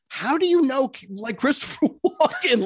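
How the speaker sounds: high, excited fan caller voice; caller quote. Retold or imitated. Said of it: "people calling in being like".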